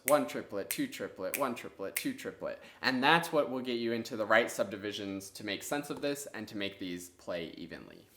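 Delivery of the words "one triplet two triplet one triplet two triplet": steady rhythmic count, beat on one and two; counting triplets. Shown as a demonstration. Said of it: "you have to think triplets".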